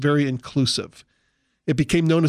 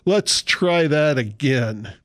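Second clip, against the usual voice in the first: mock emcee retry; slower than usual. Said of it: "he's gonna say".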